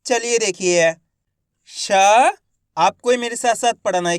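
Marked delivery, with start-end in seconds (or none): 1.7-1.9 श as a long, held "shaa"; letter sound demo. Shown as a demonstration. Teacher modelling one letter for pupils, श held long. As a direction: sound out श on its own, stretched. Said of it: "एक एक अक्षर का उच्चारण किस तरीके से".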